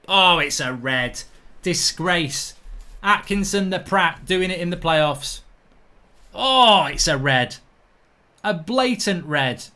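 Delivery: loud, exasperated ranting about the red card; indignant outrage. Real, not acted. Vlogger furious at the referee for missing a red card, loud outraged ranting. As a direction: bark out that it's a blatant red.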